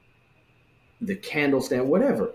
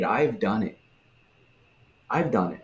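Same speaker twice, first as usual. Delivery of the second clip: smug entitlement. Retold or imitated. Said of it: "This is that manipulative thing".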